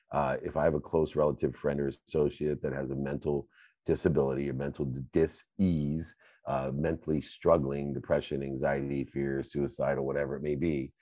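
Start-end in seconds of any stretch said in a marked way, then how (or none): 5.1-6.1 "dis-ease" broken into two parts; split word. Shown as a demonstration. Splits disease to show word parts.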